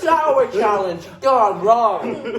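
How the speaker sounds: slow words broken by laughter; laughing. Real, not acted. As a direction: laugh through a slow announcement. Reacting to sour candy.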